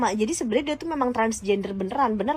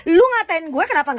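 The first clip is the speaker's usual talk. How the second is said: high, loud indignant burst; angry outburst; 7 semitones higher, 6 dB louder than usual. Real, not acted. Vlogger rounding on her rival, angry outburst. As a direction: blast the accusation at him.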